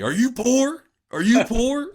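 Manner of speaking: high, loud taunting yell; mock scream. Assistant coaches taunting the intern, high mock scream. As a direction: jeer it at him like the assistant coaches. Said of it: "would just scream at me".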